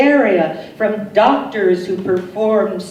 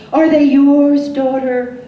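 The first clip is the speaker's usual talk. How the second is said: sharp raised question; 7 semitones higher, 5 dB louder than usual. Retold or imitated. Quoted question to the daughter.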